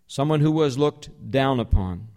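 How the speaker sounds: usual speaking voice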